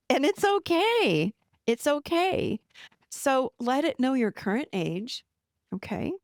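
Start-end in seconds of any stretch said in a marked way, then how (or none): 0.1-2.6 drawn-out, higher-pitched reassurance; reassuring. Real, not acted. Coach accepting that an upset part resists, reassuring. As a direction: soothe with a lifted, unhurried pitch.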